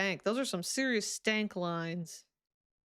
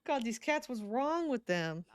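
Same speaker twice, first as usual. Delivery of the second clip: retold exasperation, lifting higher on the repeat; mock exasperation; 3 semitones higher than usual. Player retelling their blame of the cats, mock exasperation. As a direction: mimic your own fed-up complaint, playfully. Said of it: "I'm like".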